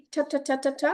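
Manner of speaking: rapid puffed "ঠ" repeats; staccato "ঠ" with a puff of air; aspirated ঠ drill. Shown as a demonstration. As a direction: drill "ঠ" in an even burst. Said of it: "আমাদের ঠ sound same".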